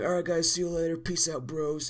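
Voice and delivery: high, loud fake-cheery vlogger outro; chirpy sign-off. Dad ends the video for viewers, high cheery vlogger voice. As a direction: switch to a bright upbeat vlog sign-off. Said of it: "it's like".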